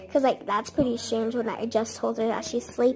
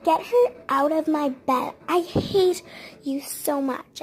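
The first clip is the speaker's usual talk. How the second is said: retold bratty outburst, a little raised; mock angry child; 3 semitones higher, 3 dB louder than usual. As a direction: act out a cross kid's demand. Child angrily rejecting her in story.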